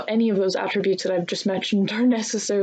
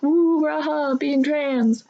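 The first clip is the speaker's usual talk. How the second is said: mock cheer; 4 semitones higher, much slower than usual. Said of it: "are like".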